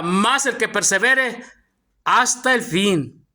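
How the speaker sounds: slow and deliberate, phrase by phrase; slow emphatic reading. Shown as a demonstration. Preacher pointing the congregation to the verse's wording, slow and emphatic. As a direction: draw out each phrase, pausing before "hasta el fin". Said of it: "Mire la palabra".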